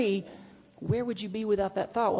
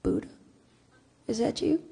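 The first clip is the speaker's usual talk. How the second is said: lightly sung la la la, then a startled question; singsong then surprise; 7 semitones higher than usual. Retold or imitated. On a walk with nephews, spotting the Buddha, singsong then startled. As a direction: stroll along humming, then spot it. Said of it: "And I'm like".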